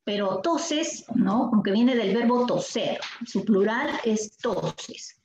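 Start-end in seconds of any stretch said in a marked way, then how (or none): 0.4-1.1 "toses" said slowly, both syllables spelled out; slow emphasis. Shown as a demonstration. Teacher showing pupils the plural, "toses" slow. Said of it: "no solemos hablar en plural". 3.2-5.2 each word slowed right down, ending on "toses"; slow demo. Shown as a demonstration. Teacher stating the plural to class, slowly. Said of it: "no solemos hablar en plural".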